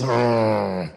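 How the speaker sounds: low, drawn-out "ugh"; mock groan of disdain; disgusted groan. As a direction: grumble out a contemptuous ugh. Mimics the man's dirty look.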